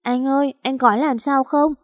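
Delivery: a small sister crying over her hurt brother; sobbing little girl. Acted. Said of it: "khóc thút thít". (em gái khóc thút thít lo lắng)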